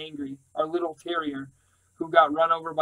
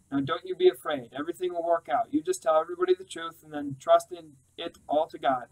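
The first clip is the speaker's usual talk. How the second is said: much higher motherly voice, soothing; comforting mother; 13 semitones higher than usual. Acted. Mother comforting her daughter on the phone, high and soothing. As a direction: reassure her gently like a Southern mama.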